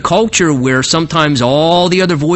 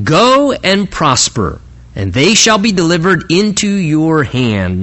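emphatic, drawn-out GO AND PROSPER; exclamatory pronouncement; slower than usual. Acted. Prophet answers the king's question on war, exclamatory. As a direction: proclaim it with an exclamation point. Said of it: "Notice with the little exclamation point".

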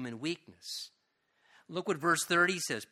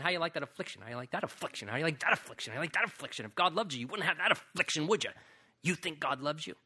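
devil's taunting voice; 2 semitones lower, 3 dB quieter, faster than usual. Acted. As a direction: sneer at him like a tormenting demon. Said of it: "a messenger of Satan punching me in the gut the whole time, saying".

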